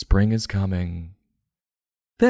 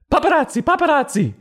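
high shrieking alarm call; panicked shout; 4 dB louder, faster than usual. Acted. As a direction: yell it as the flash goes off. Alarm at man taking a picture.

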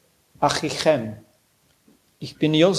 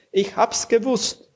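much higher, overjoyed; jubilant repeat; 6 semitones higher than usual. A narrator's reading. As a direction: cry it out in triumph. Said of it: "fast erstickt vom Jubel". (jubelnd, viel höher)

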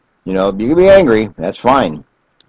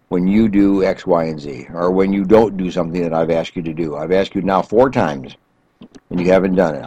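calm I statement; 2 semitones lower than usual. Shown as a demonstration. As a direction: own the feeling gently, no blame. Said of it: "learn what we call the I statements".

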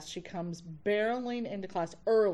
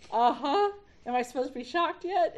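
mock impatient; 7 semitones higher, 7 dB louder than usual.

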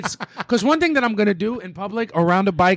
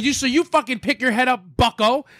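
high, slowed comic telling-off; retold yelling; 7 semitones higher than usual. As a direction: scold a stranger in a raised pitch, playing it for laughs. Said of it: "I'm yelling at old people".

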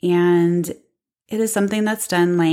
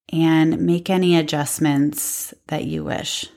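unhurried yoga relaxation voice; guided meditation. Real, not acted. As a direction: ease listeners down with long pauses. Begins guiding the relaxation practice.

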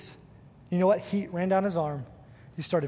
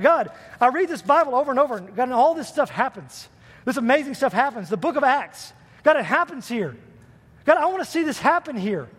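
fast, raised, eager plea to God; pleading prayer retold; 4 semitones higher than usual. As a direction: replay the urgent prayer, pushing forward. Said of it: "I'm like".

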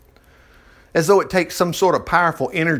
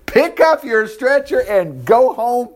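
slow, firm, slightly raised command; 6 semitones higher, slower than usual. Retold or imitated. Jesus commanding the paralyzed man to rise, slow and firm. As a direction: order the man up with authority. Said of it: "he commanded".

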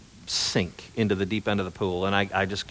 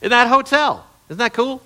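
excited; 13 semitones higher, 7 dB louder than usual. Real, not acted. Thrilled about Patton's exile there.

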